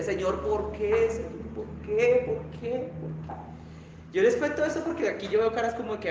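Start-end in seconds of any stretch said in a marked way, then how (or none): 0.0-3.4 mock tearful plea. Wife back home after being robbed asks God why, mildly tearful imitation. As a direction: plead as if crying, only half acted. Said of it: "llegó a la casa llorando y decía".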